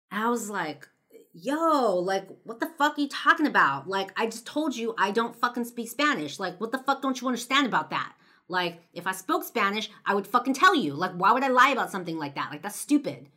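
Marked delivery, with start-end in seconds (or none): 1.3-13.3 loud, higher, exasperated retort; yelling back. Retold or imitated. Girl yelling back at the stranger who won't believe her, loud exasperation. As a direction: throw it right back at him.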